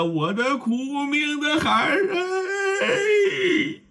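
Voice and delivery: high keening cry that soars on the last syllable; weeping mother hugging her son, wailing; wailing in tears. A narrator's reading. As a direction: wail the final 哎 far above the rest. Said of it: "搂着秦琼连哭带拍打呀".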